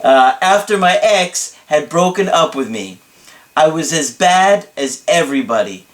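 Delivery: lightly theatrical, emphatic retelling; dramatic client impression. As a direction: confess with mock drama. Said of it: "this is hard to keep up in his voice".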